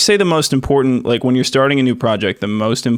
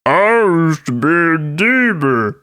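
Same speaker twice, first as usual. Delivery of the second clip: higher, slower put-on voice; cartoon character voice; 6 semitones higher, slower than usual. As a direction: deliver it like a spooky cartoon. Voicing cartoon character bit.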